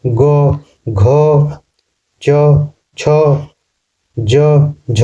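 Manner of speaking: ग, च, ज light, घ, छ, झ with a puff of air; aspiration drill. Shown as a demonstration. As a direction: separate letters in pairs, pushing breath on घ, छ, झ. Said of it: "जोड़ पड़ा ना".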